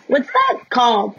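slow words through laughter; laughing. Real, not acted. Reacting to co-host's chav voice, laughing question. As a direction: ask while still laughing.

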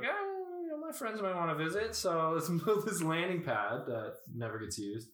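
high, hammed-up alien friend; lightly voiced silly alien; mock alien voice.

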